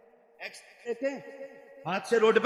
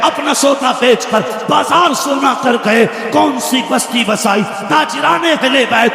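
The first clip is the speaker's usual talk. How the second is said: poem recitation; 3 semitones higher than usual. Acted. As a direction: declaim the verses with passion. Recites devotional verse to crowd.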